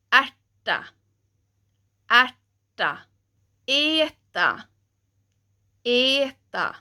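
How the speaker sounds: "ärta" with open ä, "eta" with e, each twice; word drill. Shown as a demonstration. Teacher showing ä turning to e, in words. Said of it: "we have words like".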